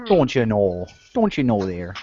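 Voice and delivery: mock Minnesota accent; northern accent. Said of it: "That's my northern accent".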